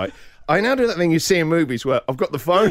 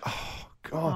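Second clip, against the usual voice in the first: whispered oh God; 13 dB quieter than usual. Retold or imitated. Dad sees daughter sad on swing.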